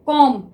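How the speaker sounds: "कॉम" said with no B at the end; silent B. Shown as a demonstration. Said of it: "इसमें बी silent है". ("कॉम" में बी silent)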